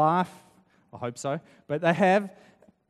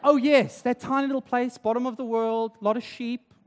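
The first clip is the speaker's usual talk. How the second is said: mock dawning recognition, higher and louder at the start; sudden recognition; 3 semitones higher, 4 dB louder than usual. Listener suddenly placing New Zealand, in mock recognition.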